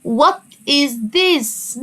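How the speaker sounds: What is this stretched very slowly, this clearly stressed; slow modelled question. Shown as a demonstration. Teacher modelling What is this slowly for first graders. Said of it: "السؤال المشهور".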